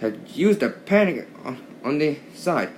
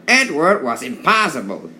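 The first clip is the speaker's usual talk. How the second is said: grumbling; 3 semitones higher, 5 dB louder than usual. Acted. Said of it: "he grumbled to the others".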